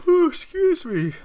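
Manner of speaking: hiccup breaking the words; a sudden squeaky hiccup. Real, not acted. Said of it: "Got the hiccups".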